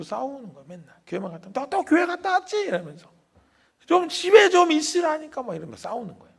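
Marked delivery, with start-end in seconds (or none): 1.5-2.6 high, loud scolding aunt; nagging aunt. Retold or imitated. Aunt scolds nephew after church. 3.9-5.4 high, loud scolding aunt; nagging aunt. Retold or imitated.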